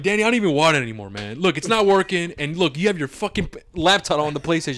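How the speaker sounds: heated complaint to a careless friend; pissed off. Retold or imitated. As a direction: fire it back at Danny, annoyed and rushed.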